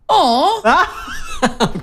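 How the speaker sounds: high, drawn-out "aw"; mock disappointed yell. Heckler to MC at awards dinner, mock disappointed yell. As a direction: call out a high-pitched crowd groan. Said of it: "someone yelled out".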